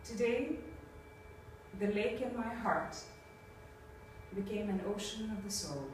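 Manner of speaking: spoken-word poetry; poem reading. Acted. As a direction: read it like a poem, letting each line settle. Reads a poem aloud.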